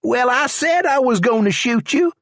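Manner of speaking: high, sharp retort; deputy silencing the prisoner; Charlie's voice. A narrator's reading. Charlie answering George.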